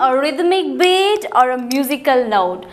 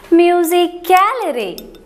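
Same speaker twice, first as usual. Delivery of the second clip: Musicality with the third syllable ca raised and lengthened; stress demo; 4 semitones higher than usual. Shown as a demonstration. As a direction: lift the ca of Musicality higher and longer. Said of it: "Where does the stress fall?".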